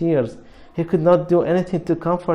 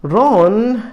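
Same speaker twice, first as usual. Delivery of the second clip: a loud, higher reproachful call of his name; sharp exclamation; 7 semitones higher, 7 dB louder than usual. A narrator's reading. Hermione scolding Ron as he barges in, loud sharp call. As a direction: snap his name out to stop him.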